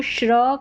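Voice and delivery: श्र as one blended 'shr' sound; pronunciation of SHR. Shown as a demonstration. Teacher reads the SHR pattern for learners, blended श्र. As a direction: say श्र as a single cluster. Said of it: "करके पढ़ा गया है".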